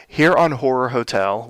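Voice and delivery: spooky horror host welcome; booming echoing villain monologue. Acted. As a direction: greet them like a haunted hotel owner.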